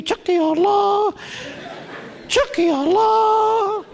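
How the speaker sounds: high hen squawk chanting Chucky Allah; republican hens. Retold or imitated. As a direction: squawk the slogan like a rebel hen. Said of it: "they're sort of".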